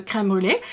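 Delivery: crème brûlée with a light, non-French R; imitated crème brûlée. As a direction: copy his "kem bu-ray" crème brûlée. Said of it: "because he said crème brûlée".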